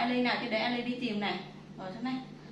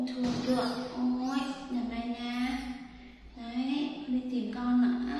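soothing the cat. Real, not acted. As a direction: gently console the upset cat. Comforting the cat.

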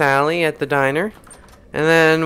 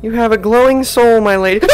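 flirty charmer voice; 8 semitones higher, 8 dB louder than usual. Acted. Flattering the ghost, laughing.

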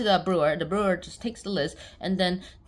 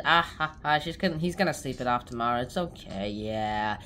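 low voice; 6 semitones lower than usual. Retold or imitated. Caretaker lowly reassuring.

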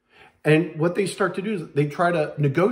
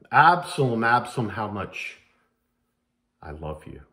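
grieving father; 5 semitones lower than usual. Acted. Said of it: "David with his own son".

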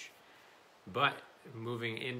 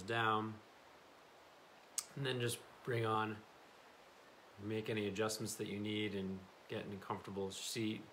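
calm, unhurried meditation guide; settled voice with long pauses between instructions; guided meditation. Real, not acted. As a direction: ease them into stillness.

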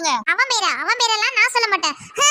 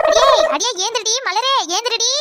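shouting to wake her; 2 semitones higher than usual. Acted. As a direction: yell her awake from sleep. Mother waking sleeping daughter.

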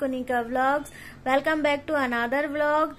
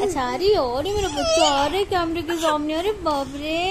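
louder, delighted exclaiming; excited; 3 semitones higher, 4 dB louder than usual. Real, not acted. Baby crawls toward camera. (कैमरे की ओर आती बच्ची पर उत्साह)

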